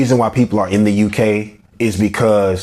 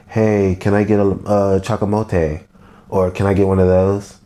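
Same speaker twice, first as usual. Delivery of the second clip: lightly mocked generic American accent; typical American accent. Imitating customers ordering with a typical American accent, lightly mocking. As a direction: put on a mild standard American accent. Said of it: "your typical American accent".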